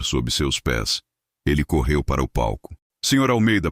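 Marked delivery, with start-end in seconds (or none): 3.0-3.7 higher, anxious pleading; desperate plea. A narrator's reading. Evandro begging the furious host, high anxious plea. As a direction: beg him to stop, voice climbing.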